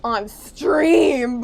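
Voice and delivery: loud, very drawn-out mock whine; slow, exaggerated grumbling; mock complaining. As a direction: stretch it out like a hammed-up complaint. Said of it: "like, complaining, like".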